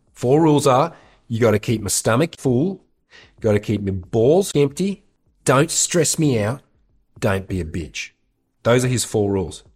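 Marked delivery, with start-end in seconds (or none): 0.1-8.1 lightly imitated blunt rule-giver; Sir Dominic. Friend listing his four rules to girls, light impression. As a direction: count off demands in short separate phrases, lightly in character. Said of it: "And then he's like".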